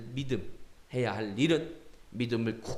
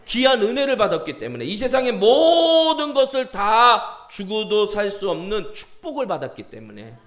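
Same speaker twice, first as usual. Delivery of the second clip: higher, loud preacher's surge; impassioned preaching; 7 semitones higher, 7 dB louder than usual. Acted. Preacher telling the congregation of grace received, impassioned. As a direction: drive it home to the congregation, drawing out key words.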